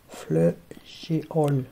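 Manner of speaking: slow, careful spelling aloud of géol; slow sounding out. Shown as a demonstration. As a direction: drag out Fleu- géol syllable by syllable. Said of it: "Non, géol". (déchiffrage lent, syllabe par syllabe)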